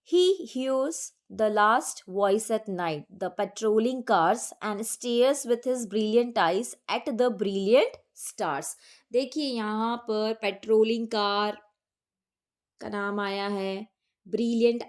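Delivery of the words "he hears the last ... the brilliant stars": slow, measured reading of verse; poem recitation. Acted. Teacher reading a poem extract to the class, slow recitation. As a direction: read each line slowly and deliberately, like a recitation.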